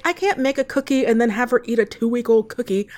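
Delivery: normal talking voice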